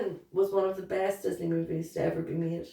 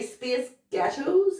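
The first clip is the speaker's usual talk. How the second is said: "space ghettos" in a light American accent; 7 semitones higher, much slower than usual. Shown as a demonstration. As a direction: demonstrate an American accent, amused. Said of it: "you say space ghettos in an American".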